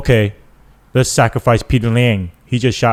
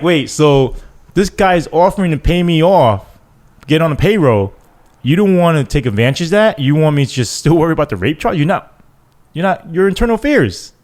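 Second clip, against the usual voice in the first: incredulous; 7 semitones higher than usual. Retold or imitated. Incredulous retelling to internal affairs.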